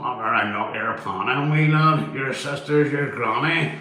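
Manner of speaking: hammed-up Belfast banter, slow and drawn out; badly faked Belfast accent. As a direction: stretch the vowels in mock Belfast patter. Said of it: "I can't even do a Belfast accent".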